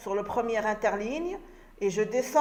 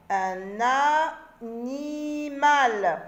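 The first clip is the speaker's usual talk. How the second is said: lent syllabé; much slower than usual. Shown as a demonstration. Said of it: "répète en syllabes".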